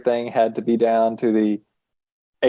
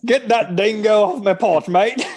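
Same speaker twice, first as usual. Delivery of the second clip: mock Australian accent; 9 semitones higher than usual. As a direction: joke Aussie voice teasing the co-hosts. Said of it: "I thought that was Australian".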